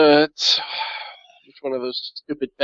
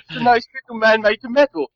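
high, earnest dim servant; simple-minded servitor; 7 semitones higher than usual. Acted. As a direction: describe it like a simpleton, pitched up. Servitor answers master on vox.

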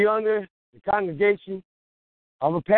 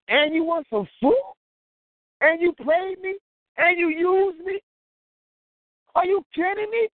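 rising higher with each accusation; indignant, building outrage; 4 semitones higher than usual. Acted. Wronged neighbour to the one who used him, building indignation. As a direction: climb from disbelief to high indignant outrage.

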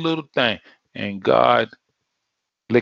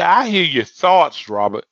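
voice of God; 4 semitones higher, 5 dB louder than usual. Retold or imitated. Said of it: "God said".

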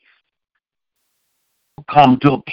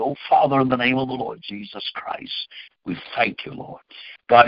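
prayer; 3 semitones lower than usual. Acted. Apostle praying over his followers, earnest prayer. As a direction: pray it aloud over the people. Prays aloud for viewers.

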